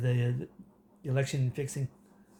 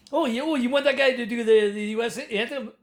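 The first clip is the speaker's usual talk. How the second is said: mocking disbelief; 7 semitones higher, 4 dB louder than usual. Mocking fans' suggestion.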